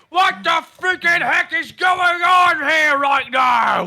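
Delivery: loud yelling. Playing an orc rushing up to workers at the cheesery: yelling in Orcish. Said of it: "yelling in Orcish".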